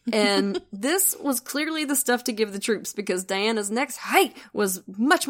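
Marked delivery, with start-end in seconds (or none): 4.0-4.3 stronger hi. Retold or imitated. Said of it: "much stronger".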